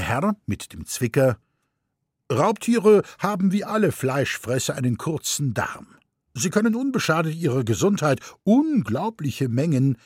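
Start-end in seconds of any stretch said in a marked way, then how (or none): 2.3-10.0 higher, lecturing know-it-all; pedantic gentleman. A narrator's reading. Gentleman with pince-nez correcting the mother, lecturing. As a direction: correct her with raised finger.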